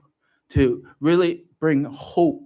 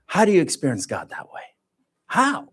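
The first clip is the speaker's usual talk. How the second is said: incredulous challenge; 5 semitones higher, 4 dB louder than usual. Retold or imitated. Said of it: "And I said".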